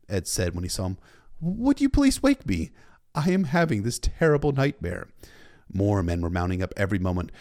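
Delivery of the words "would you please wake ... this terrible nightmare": high-pitched, slowed plea; put-on character voice. A narrator's reading. Ed pleading with Sam amid the carnage, high-pitched character voice.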